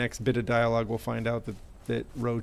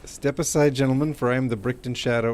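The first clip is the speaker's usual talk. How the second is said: theatrical villain proclamation; 5 dB louder than usual. Acted. Grand vigilante introduction.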